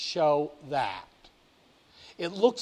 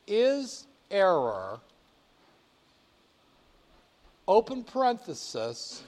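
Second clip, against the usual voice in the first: dictating. Shown as a demonstration. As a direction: spell out each symbol clearly. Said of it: "watch what I'm going to do".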